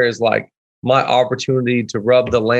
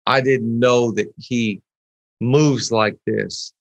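slow hushed wonder; 4 semitones lower, slower than usual. Pretend. Imagined prayer of amazement.

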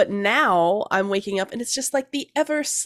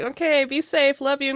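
sweet goodbye; 5 semitones higher than usual. Retold or imitated. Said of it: "And I'm just like".

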